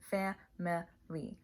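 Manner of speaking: slow whispered family; whispered demo. Shown as a demonstration. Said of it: "like this".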